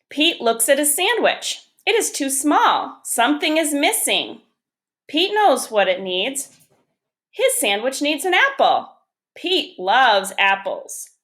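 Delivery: measured storybook reading with lilting phrases; picture-book read-aloud. Acted. Teacher reads Pete the Cat to first graders, storybook read-aloud. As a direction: read it out to young children, pausing between sentences.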